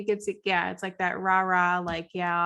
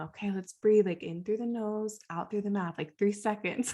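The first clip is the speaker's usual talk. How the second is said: put-on soft and soothing, talk a panicked kid down; gentle, quieter, guiding each breath; softly coaching a crying student to breathe; calming counselor voice; 4 dB quieter than usual. Shown as a demonstration. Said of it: "counselor mode".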